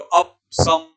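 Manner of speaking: अप सम with अप cut to "ap"; imitated wrong अप सम. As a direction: mimic the slip, अप closed on p before सम. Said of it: "ऐसे बोल रहे हो". (गलत उच्चारण की नकल, अप का प अधूरा)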